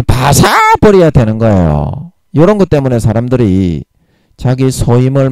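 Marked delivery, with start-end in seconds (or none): 0.0-1.1 drawn-out Gyeongsang dialect word, pitched up. Shown as a demonstration. Preacher urging listeners to smash illusions, emphatic Gyeongsang dialect. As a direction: stretch 바사 high with Gyeongsang punch. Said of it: "이게 경상도 말로 부숴버린다".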